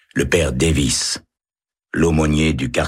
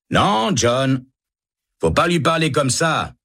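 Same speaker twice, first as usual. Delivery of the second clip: firm rebuke; 10 semitones higher than usual. A narrator's reading. Kendall rebukes the other guard.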